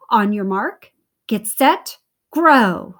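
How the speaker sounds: building starter's call, loudest on Grow; calling the start. Acted. Owl starts the race.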